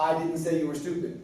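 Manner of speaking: emphasize the opening "I"; stress on I. Shown as a demonstration. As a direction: lean on "I", then let the rest follow. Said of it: "I want you to emphasize that".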